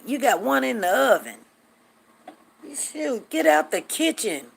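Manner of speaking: high, wailing disbelief; mock exasperation. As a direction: lament it like a scandalized girlfriend. Acts out exasperation at friend's kids.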